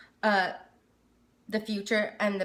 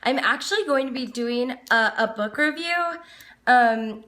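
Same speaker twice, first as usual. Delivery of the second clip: speaking loudly, almost yelling; unknowingly raised, near-yelling voice; 3 semitones higher, 5 dB louder than usual. Real, not acted. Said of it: "I think I'm yelling".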